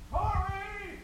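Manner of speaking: high, far-carrying call from the doorstep, slow. Retold or imitated. Mom on the front doorstep calling her son in for dinner, high sing-song call.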